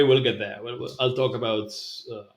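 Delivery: normal talking voice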